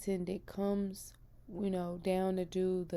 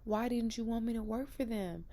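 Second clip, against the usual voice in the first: pleading with God; 5 semitones higher than usual. Retold or imitated. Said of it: "I just kept being like".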